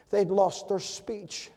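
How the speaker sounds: normal talking voice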